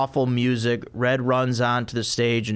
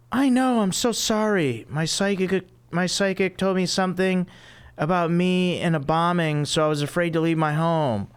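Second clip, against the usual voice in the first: high, flustered ditzy woman; squeaky airhead apology; ditzy Phoebe voice; 6 semitones higher than usual. Acted.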